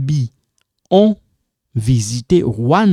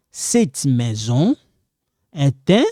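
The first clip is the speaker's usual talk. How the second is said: slow teaching demo; slower than usual. Shown as a demonstration. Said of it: "Here become est un".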